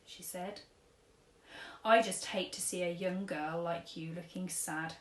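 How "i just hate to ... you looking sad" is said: lightly voiced gentle old man giving advice; a hint of an old gent counselling a girl; kindly old tramp. Old tramp advises sad girl, lightly voiced kindly. Mister Stink speaks.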